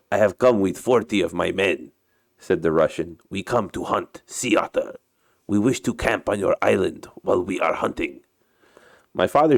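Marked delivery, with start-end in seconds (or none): 0.1-1.9 put-on Russian captain's accented English; story character with a put-on Russian accent. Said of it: "uh, my Russian accent". 3.3-8.2 put-on Russian captain's accented English; story character with a put-on Russian accent. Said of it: "uh, my Russian accent".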